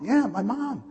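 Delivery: very high, grieving confirmation; mock crying wail. Wife confirming her mother's death, imitated wailing. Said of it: "she started crying and screaming".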